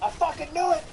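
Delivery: half-laughing I-told-you-so; triumphant cry. Retold or imitated. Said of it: "and I'm like".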